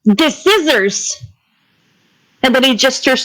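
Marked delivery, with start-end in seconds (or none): 0.0-1.2 very slow, drawn-out condescension; exaggeratedly slow, patronizing explanation; talking to a buffoon. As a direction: spell it out slowly as if to an idiot. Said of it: "as if he's talking to an absolute buffoon".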